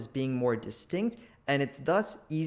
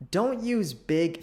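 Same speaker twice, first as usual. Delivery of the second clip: "Don't" punched louder, slowed down; stress on DON'T; 5 semitones higher, 4 dB louder, slower than usual. Shown as a demonstration. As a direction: lean hard on "Don't". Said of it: "stresses don't".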